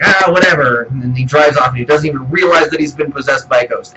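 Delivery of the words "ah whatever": dismissive shrug. Retold or imitated. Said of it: "he's like".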